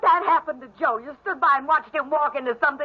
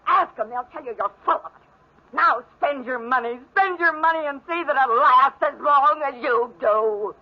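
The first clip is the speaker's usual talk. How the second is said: hurling the words through rising sobs; bitter tearful tirade. Acted. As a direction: voice cracking with tears as she spits it out. Sister's bitter tirade breaking down.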